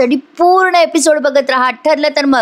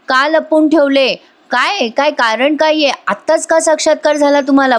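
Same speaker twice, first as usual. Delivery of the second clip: higher-pitched, insistent questioning; acted-out lawyer's grilling, pitched up; pressing interrogation; 5 semitones higher than usual. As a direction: press the witness for an answer. Lawyer grilling witness in retold trial.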